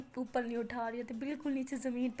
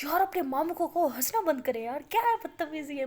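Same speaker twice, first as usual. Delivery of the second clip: angry complaint; 3 semitones higher, 6 dB louder than usual. Acted. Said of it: "मुझे इतना गुस्सा आ रहा है".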